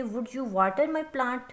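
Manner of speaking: very slow, word by word dictation; teacher reading an example sentence very slowly. Shown as a demonstration. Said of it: "जैसे".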